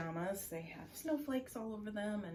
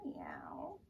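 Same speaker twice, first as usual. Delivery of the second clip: cat meow; 12 semitones lower than usual. Shown as a demonstration. Kitty cat stretch demo.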